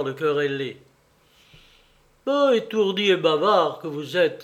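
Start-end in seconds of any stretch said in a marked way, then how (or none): 2.3-4.4 reproche vif et un peu plus fort; querelle indignée. Acted. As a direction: gronder son ami étourdi avec indignation. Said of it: "s'écria-t-il". (s'écrier en querellant, indigné)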